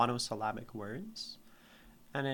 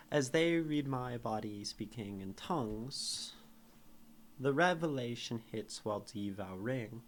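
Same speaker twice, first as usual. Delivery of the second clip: poem reading. Acted. Reads her sonnet aloud.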